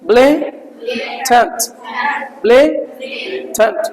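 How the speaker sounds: slow ब्लेटेंट, first syllable ब्ले stressed and drawn out. Shown as a demonstration. Teacher models ब्लेटेंट for students with stress on ब्ले. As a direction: stretch ब्लेटेंट slowly, lean on ब्ले. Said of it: "तो ब्ले ऊपर पढ़ा जाएगा".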